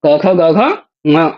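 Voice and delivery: क ख ग घ ङ very slowly, drawn out. Shown as a demonstration. Teacher repeating the ka-series very slowly for students. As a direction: linger on each of क ख ग घ ङ. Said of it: "कु शब्द से कवर्ग आ जाता है".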